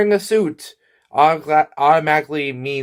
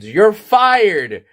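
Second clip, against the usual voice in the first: screamed rant fading into a slower mutter; screamed firing; 6 semitones higher, much slower than usual. Acted. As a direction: yell it at Brian like a furious boss. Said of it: "the once gentleman screamed".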